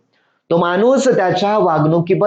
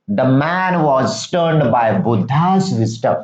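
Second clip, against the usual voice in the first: each English word read slowly and clearly to pupils; slow reading of the story; 5 semitones lower, much slower than usual. Shown as a demonstration. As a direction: read the line word by word for the class. Teacher reads story text slowly. (मुलांना सावकाश वाचून दाखवणे)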